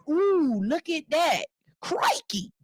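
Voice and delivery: put-on high, excited Australian accent like Steve Irwin. Host imitates Steve Irwin to listeners, excited Australian accent. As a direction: gush about the alligator in a big Australian accent. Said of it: "that's my Australian".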